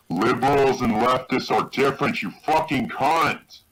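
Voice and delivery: irritated, pitch climbing; angry rant. Real, not acted. Insulting rant at a critic.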